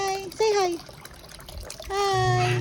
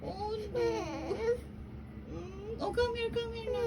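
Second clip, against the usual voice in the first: soothing; 3 semitones higher, 6 dB quieter than usual. Pretend. Soothing a crying pretend toy.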